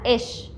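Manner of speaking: اش said as one syllable, short vowel first; pronunciation demo. Shown as a demonstration. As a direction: say اش as a single closed syllable. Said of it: "لو حطيت عليه جنكم هقولها".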